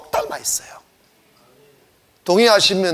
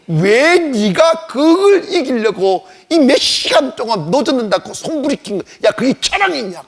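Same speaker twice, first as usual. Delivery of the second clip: retold scolding. Preacher voices the Lord scolding his disciples, exasperated. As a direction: scold them as the Lord would, stretching the opening words. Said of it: "왜 화를 내느냐?".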